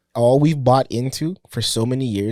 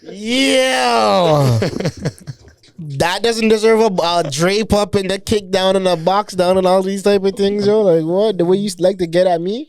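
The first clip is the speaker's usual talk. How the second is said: laughing disbelief, pitched way up; excited; 10 semitones higher than usual. Real, not acted. Laughing disbelief at friend's gift.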